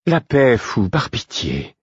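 weary, sincere begging; pleading. A narrator's reading. Queen begging the fool for peace, pleading. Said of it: "Le ton suppliant de la reine".

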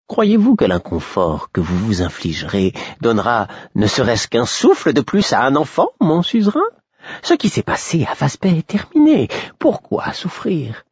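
plaidoirie très haut perchée; fou du roi implorant. A narrator's reading. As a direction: protester de plus en plus aigu. Fool pleads with his king. (voix de bouffon, suppliante et exaltée)

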